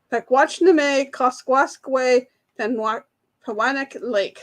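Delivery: slowish sounding-out that trips on "Penwa-, Pewanak"; stumbling pronunciation attempt. Real, not acted. Quiz host's last reading of the hard lake name, careful then stumbling. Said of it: "probably won't say it the same way".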